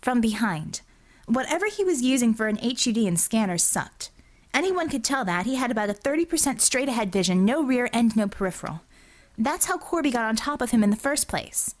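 lightly voiced self-justifying officer; Bella, defensive. Officer justifies hitting the goon from behind, defensive.

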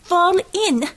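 high, loud command; shouted order. A narrator's reading. Red Savior to her heroes as she runs, shouted order. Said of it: "she shouted".

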